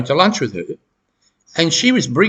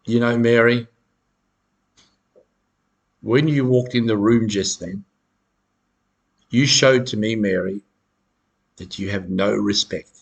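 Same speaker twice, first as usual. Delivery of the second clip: lower, cold and reproachful; accusing; 3 semitones lower than usual. Retold or imitated. Narcissist scolding Mary, low and reproachful. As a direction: lecture Mary on her lack of respect, lower and cold. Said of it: "that's a really nasty gaslight".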